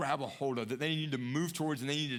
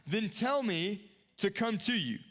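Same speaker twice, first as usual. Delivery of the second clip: calling out; 3 semitones higher than usual. Retold or imitated. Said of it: "he's yelling out at Jesus".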